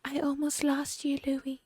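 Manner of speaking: high breathy whisper of a fake-tender mother; whispered soft-spoken imitation. Mocking the mother whispering to her son. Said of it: "she's so soft-spoken".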